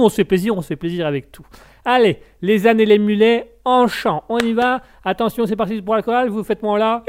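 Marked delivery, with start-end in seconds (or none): 1.8-7.0 hyped choir leader. Pretend. Leads mock choir.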